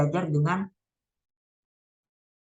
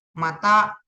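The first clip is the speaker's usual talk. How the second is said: louder, certain repeat of the answer; confident exclaimed answer; 3 semitones higher, 6 dB louder than usual. Real, not acted. Student quizzing herself, landing the answer loudly. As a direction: snap the answer out like you just got it.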